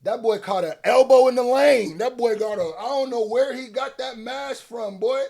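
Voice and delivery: loud, high comic disbelief; excited roasting. Real, not acted. Mocking the man's mask.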